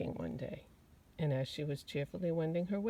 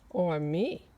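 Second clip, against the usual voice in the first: bragging butterfly; 7 dB louder than usual. Acted. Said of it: "bragged the butterfly".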